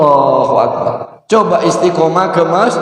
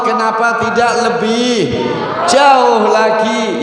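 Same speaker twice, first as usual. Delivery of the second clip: high, drawn-out quoted cry; retold shout; 5 semitones higher, slower than usual. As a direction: call it out high, stretching the end. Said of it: "bengok sing pertama napa". (menirukan teriakan dengan nada tinggi)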